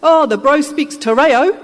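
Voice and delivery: teasing shearer calling out, laughing; laughing shout from the back. Retold or imitated. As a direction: call it out from the back of the shed, grinning. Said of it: "a voice said".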